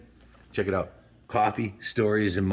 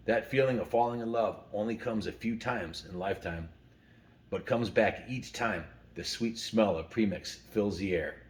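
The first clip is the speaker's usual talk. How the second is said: calm, softer storyteller reading; story reading; 4 dB quieter than usual. Acted. Uncle Ken reading story time to listeners, softer story narration. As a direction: read it like a bedtime story time tale. Reads the company story aloud.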